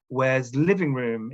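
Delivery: slowly, "Where's living room?" with no article; a student dropping the article; learner error. Shown as a demonstration. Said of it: "They might say".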